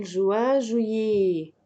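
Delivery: "جويي" ending on a clear "é". Shown as a demonstration. Teacher explaining ET to students, "جويي" ending in "é". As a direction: finish "جويي" with an open "é", no T. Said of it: "إي تي بتتنطق إيه".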